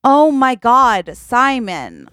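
acted letdown, starting high then sinking; exasperated dismay. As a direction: despair at your partner, drawing it out. Partner learns luggage is lost.

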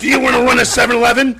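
put-on Indian accent. Indian accent mocked, Apu.

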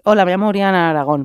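quick, tongue-twister intro in her own voice; mock self-introduction. Friend mocking a long name, quick mock introduction. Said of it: "Parece un trabalenguas".

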